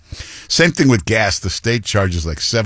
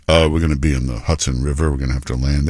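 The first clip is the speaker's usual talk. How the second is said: calm pilot voice; 6 semitones lower, faster than usual. Retold or imitated. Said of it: "They talk like this to the control tower".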